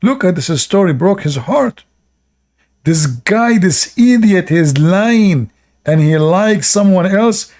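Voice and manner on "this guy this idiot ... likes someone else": mocking high voice. Mocking voice of female bird.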